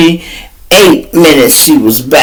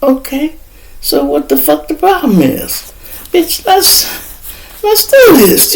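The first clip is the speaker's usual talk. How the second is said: eager pep-up; 13 semitones higher than usual. Retold or imitated. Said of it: "I'm like".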